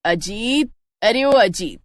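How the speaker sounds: mother calling her son from afar; a mother's mild call to her sleeping son; calling out to wake him. Acted. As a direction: raise the voice to call Ajit out of bed. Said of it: "जब सविता उसे आवाज लगाती है".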